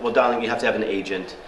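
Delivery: dismissive receptionist in fake English accent; bad English accent. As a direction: brush the caller off in amateurish English tones. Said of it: "do a bad English accent".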